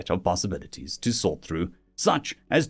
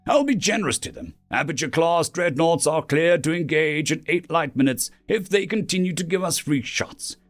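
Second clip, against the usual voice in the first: lightly voiced commander, higher in pitch; commander giving clearance; 5 semitones higher than usual. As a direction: lay out the attack orders, pitched up. Admiral and officer plan attack.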